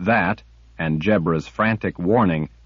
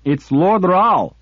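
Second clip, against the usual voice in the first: loud, slow, higher furious yell; screaming in rage; 10 semitones higher, 5 dB louder, slower than usual. A narrator's reading. Kara screaming at the sliff, enraged. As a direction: scream it at her. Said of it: "Kara screamed in rage".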